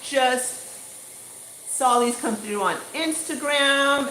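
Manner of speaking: mildly excited quote, pitched a little high; a touch of imitated excitement; imitating his excitement. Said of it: "and he's excited".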